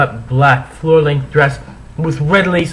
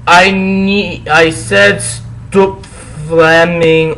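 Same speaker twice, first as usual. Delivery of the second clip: shouting; 4 semitones higher, 4 dB louder, much slower than usual. Acted. Author's note shouting at readers.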